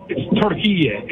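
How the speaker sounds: Turkiye said slowly, stress on the middle KI; correct Arabic pronunciation. Shown as a demonstration. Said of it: "in Arabic, the word".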